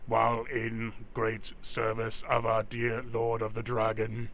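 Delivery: steady mechanical guard voice; robot voice. Acted. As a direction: speak as a stiff security robot. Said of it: "Oh, that robot voice".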